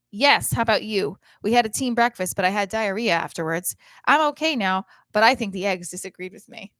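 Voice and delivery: loud, matter-of-fact mom reading; oversharing mom. Retold or imitated. Mother texting her daughter back, loud oversharing. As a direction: belt out mom's text as if it were normal. Performs mother's random text reply.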